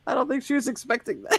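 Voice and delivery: talking through laughter; laughing. Real, not acted. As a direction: speak while cracking up. Reacting to clip, laughing.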